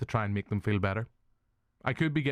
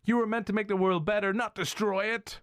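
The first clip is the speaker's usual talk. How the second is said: mock robot film line; 10 semitones higher than usual. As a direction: say it like a noble movie robot. Quoting Bicentennial Man.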